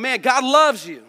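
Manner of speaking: emphatic declaration. Acted. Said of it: "this kind of blast of a statement".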